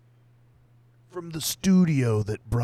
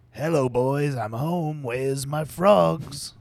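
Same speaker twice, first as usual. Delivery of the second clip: hammed-up lover voice; 6 semitones higher, 7 dB louder, slower than usual. Man voicing arriving lover.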